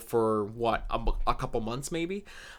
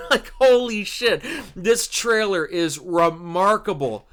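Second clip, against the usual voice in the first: laughing awe; 5 semitones higher, slower than usual. Real, not acted.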